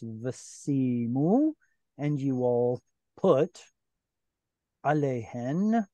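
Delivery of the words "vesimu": "Vesimu" drawn out slowly, stress on the next-to-last syllable; penultimate stress. Shown as a demonstration. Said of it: "here's their stress".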